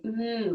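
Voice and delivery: "mm" as if loving a cookie; savoring mm. Shown as a demonstration. Teacher pretends to love a cookie, savoring hum. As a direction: hum like tasting your favorite cookie. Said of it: "like we just love it".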